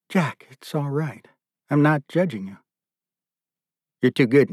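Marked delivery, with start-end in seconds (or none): 0.1-2.6 soft reassurance. Acted. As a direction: soothe him without judgment. Nicky reassures crying Jack.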